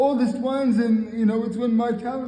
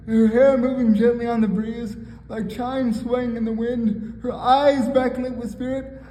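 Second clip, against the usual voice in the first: measured spoken poetry reading; poem recitation. Acted. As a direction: recite it line by line, pausing between phrases.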